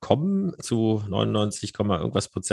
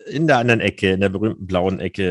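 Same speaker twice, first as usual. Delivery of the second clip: boxing ring announcer. Acted. Announces co-host from blue corner.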